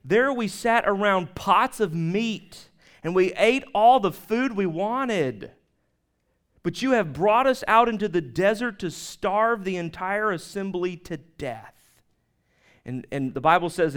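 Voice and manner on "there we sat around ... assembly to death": complaining Israelites. Retold or imitated. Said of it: "The Israelites said to them".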